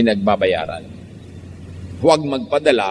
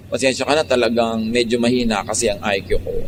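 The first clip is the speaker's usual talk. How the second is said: low, meek mock apology; gentle answer; 3 semitones lower than usual. Calming an angry accuser, gentle and humbly apologetic. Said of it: "banayad ang sagot mo".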